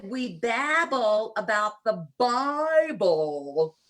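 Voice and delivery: put-on slow, drawn-out Southern accent, Bible sounding like babble. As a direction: retell your old Southern accent, slowly and with a grin. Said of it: "my Southern accent".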